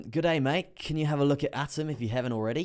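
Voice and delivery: put-on Australian accent. Streamer reading a viewer's request, in an Australian accent. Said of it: "Don't know why I went Australian there".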